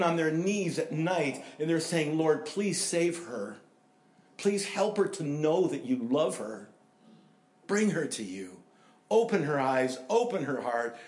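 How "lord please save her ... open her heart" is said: earnest, imploring plea to God; pleading prayer. Acted. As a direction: plead on someone else's behalf. Acting a pleading intercessory prayer.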